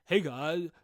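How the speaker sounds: a lightly put-on YouTuber "Hey, guys"; chirpy mock YouTuber intro; YouTuber greeting voice. Podcaster mocking the YouTuber voice, light impression. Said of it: "that voice is just like".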